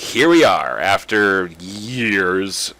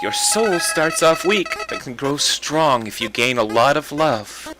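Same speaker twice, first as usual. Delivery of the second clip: higher sweet flower voice; Flowey; 3 semitones higher than usual. Acted. Flower luring the player with love, sweet. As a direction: coax like a friendly flower. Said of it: "my superb voice acting".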